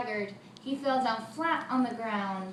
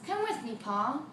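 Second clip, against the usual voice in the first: put-on boy's voice.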